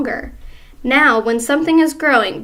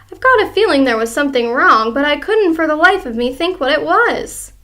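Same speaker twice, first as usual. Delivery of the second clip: lightly voiced old wife; 4 semitones higher, 4 dB louder than usual. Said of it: "Missus Twit said".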